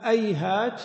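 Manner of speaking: أيهات with the h turned to a hamza, ayhāt; أيهات opening on a glottal catch; glottal stop first. Shown as a demonstration. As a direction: start أيهات with a hamza, not h. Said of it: "بقلب الهاء همزة".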